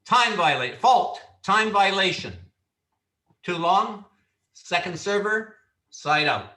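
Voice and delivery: loud, firm referee call; referee's call. Shown as a demonstration. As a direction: call it out loud so players stop. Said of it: "And you simply call".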